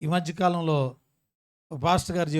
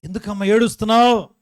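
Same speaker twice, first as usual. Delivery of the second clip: louder, higher acted plea to a caller; raised-voice questioning; 5 semitones higher, 6 dB louder than usual. Pastor asking a crying woman on the phone, raised-voice questioning. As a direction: press her loudly for an answer.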